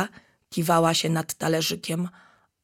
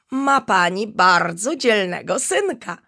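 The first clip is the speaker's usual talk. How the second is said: smiling; 3 semitones higher, 5 dB louder than usual. Acted. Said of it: "uśmiechnęła się".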